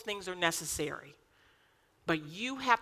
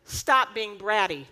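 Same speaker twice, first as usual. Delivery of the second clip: firm husband; 2 semitones higher, 6 dB louder, slower than usual. Retold or imitated. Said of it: "looks at me and says".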